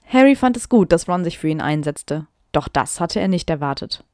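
reading her old story with mock drama; dramatic reading aloud. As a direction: perform the text a little theatrically. Reads fanfic aloud.

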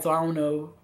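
hoarse, croaky throat. Real, not acted. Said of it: "a frog just jumped into my throat".

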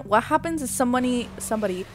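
ordinary talk

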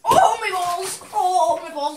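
pained groan from the cold; strained and slow; in ice cold water. Real, not acted.

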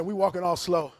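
drawn out slow walking. Shown as a demonstration. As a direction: stretch it, all slow. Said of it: "No, no, no, sir".

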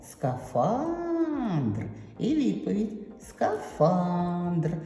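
«скафандр» with weight on «фа»; stress on FAN. Shown as a demonstration. Teacher answers where the stress falls, slowly. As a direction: hit the second «а» in «скафандр». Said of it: "куди ж падає наголос".

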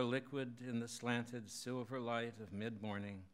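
measured, lifted poetry-reading voice; poem reading. Acted. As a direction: read the poem aloud in even, deliberate phrases. Reads own poem aloud.

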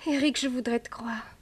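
barely voiced, faint and breathy; weak whisper. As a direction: whisper it as if just coming round. Faible après avoir été étouffée. (murmure faible)

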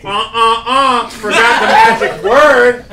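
lightly voiced cheerleader taunt; a hint of a cheerleading chant; mock cheerleader. Host speaks for challengers taunting the champions, light cheerleader impression. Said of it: "who may think from my last impressions".

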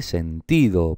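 sentido with TI stressed and held; stress on middle syllable. Shown as a demonstration. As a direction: lean on TI in sentido. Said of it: "Está aquí".

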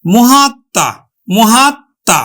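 মহাত্মা said as mohatta, with the double t and a nasal touch; teacher modelling মহাত্মা; pronunciation demo. Shown as a demonstration. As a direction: say মহাত্মা with a doubled t, a little through the nose. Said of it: "তাহলে কি হলো?".

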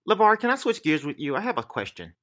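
high-pitched mimicry of a woman interviewer; interviewer as retold. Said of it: "this is all the fuck she heard".

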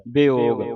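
ਵਿਯੋਗ said "bi-og", b with short i, open o; spelled-out pronunciation. Shown as a demonstration. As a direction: start ਵਿਯੋਗ on "bi", then a clear long o. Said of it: "ਬੱਬੇ ਸਿਆਰੀ ਊੜੇ ਦਾ ਮੂੰਹ ਖੁੱਲ੍ਹਾ ਹੈ". (ਵਿਯੋਗ ਨੂੰ ਬੱਬੇ ਸਿਹਾਰੀ ਨਾਲ 'ਬਿਓਗ')

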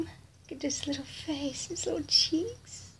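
gentle unvoiced whisper of delight; soft whisper. Real, not acted. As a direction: whisper it so no one next door hears. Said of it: "I know I'm talking soft".

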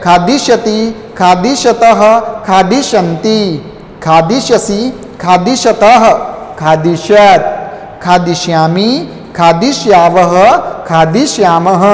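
recitation drill. Shown as a demonstration. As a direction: chant the verb forms for pupils to repeat. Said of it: "एक बार बोलिए".

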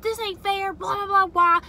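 high, loud mocking teen whine; mock hollering. Mom mimicking Summer hollering that it's unfair, high and shrill. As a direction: parody the daughter's hollering.

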